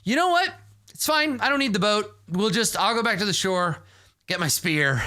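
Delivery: high, fast, huffy dismissal. Acted. Annoyed, storming off.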